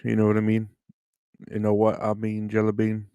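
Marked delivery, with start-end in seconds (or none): 1.5-3.1 light Aussie twang; Australian accent. Shown as a demonstration. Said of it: "That's my, uh, Australian".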